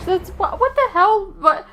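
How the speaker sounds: incredulous what-the-hell reaction; baffled outburst. Real, not acted. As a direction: blurt it out, truly thrown by the reveal. Reacting to the accent reveal.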